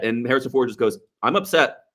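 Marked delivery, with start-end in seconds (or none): 1.2-1.8 understated imitation of a plainly stated line; plain delivery. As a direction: say it simply, without acting upset. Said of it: "He just says it, like, plainly".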